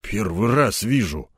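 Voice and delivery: low, slow, sighing denial; frightened colonel breathing out a denial; breathed out. Acted. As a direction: exhale the words. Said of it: "выдохнул он".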